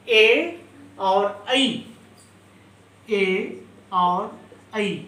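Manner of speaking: ए और ऐ sounded out very slowly, each vowel held; slow vowel demo. Shown as a demonstration. Teacher to students, holding each vowel long to show the sound. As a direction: draw out ए and then ऐ slowly so students hear them. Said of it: "ध्यान रखेंगे".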